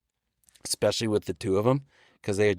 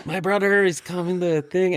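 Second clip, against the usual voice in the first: higher voice, proud of his brother; imitating Paskey; 7 semitones higher than usual. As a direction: lift the voice like an eager kid brother. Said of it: "it's Paskey's talking".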